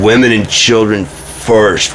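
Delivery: slow, drawn-out mock command; screamed order, half-hearted. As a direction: call it out slowly like an evacuation order. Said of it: "I would be the one screaming it".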